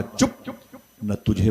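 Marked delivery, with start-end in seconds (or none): 0.0-0.3 scolding hush. Acted. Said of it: "उसने डांट के कहा".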